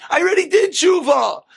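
high-pitched mock yell; acted protest shot up high. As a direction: call it out in exasperation at a neighbor. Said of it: "And he yells out".

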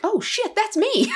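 high-pitched, laughing mock panic; comic alarmed realization. Reading a tornado warning on the phone, laughing alarm. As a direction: retell a sudden "uh-oh", jumping up in pitch.

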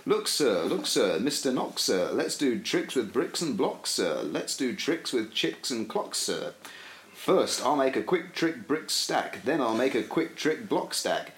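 reading a Dr Seuss book aloud for listeners; sing-song children's book read; rhythmic storybook recital; tongue-twister reading. Acted. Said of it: "go through relatively fast".

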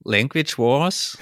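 slow, deliberate Austrian accent; hard Austrian accent. Shown as a demonstration. Colleague obliging his co-host's request, hard Austrian accent. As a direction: lay an Austrian accent on "Wars", drawn out. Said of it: "richtig hart mit österreichischem Dialekt".

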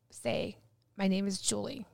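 soft, measured prompt; slowed down. Retold or imitated. Advisor coaching a reluctant medium, slowed and hushed. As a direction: gently model it for a student. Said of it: "Slow it down".

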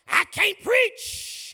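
drawn-out falsetto preach; mock preacher's whine; high stretched mock preach. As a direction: squeak it up high and slow. Mocking excuse, preach stretched high.

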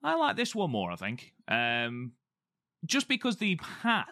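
talking while eating an orange; words round a bite of fruit; mouth full. Real, not acted. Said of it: "I'm eating an orange at the same time".

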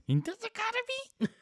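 squeaky high joke voice; high-pitched. Acted. Repeating running joke.

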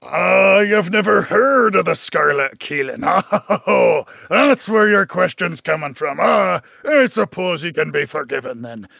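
gruff pirate captain calling across the room; hearty sea captain hailing a stranger. Acted.

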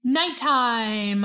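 talking with a mouthful; words round a bite of Nutella; mouth full. Real, not acted. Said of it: "I'm sorry, I'm eating Nutella".

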